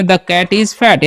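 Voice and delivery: slow dictation. Shown as a demonstration. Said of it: "जैसे में".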